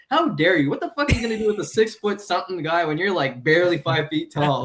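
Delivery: mock outrage. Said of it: "I'm like".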